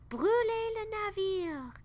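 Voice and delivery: high, furious shouted order; enraged captain yelling from the boat; captain shouts. A narrator's reading. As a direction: scream the order across the water. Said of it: "a crié le capitaine".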